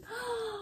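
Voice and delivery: short awed intake of breath; soft gasp. Real, not acted. Vlogger spotting another detail, awed gasp. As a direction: gasp in wonder. Unboxing reveal.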